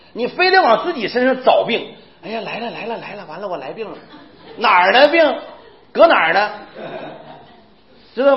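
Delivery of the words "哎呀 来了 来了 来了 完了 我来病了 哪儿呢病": mock dread, laughing. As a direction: giggle through a fake 'here it comes'. Mocking hypochondriac.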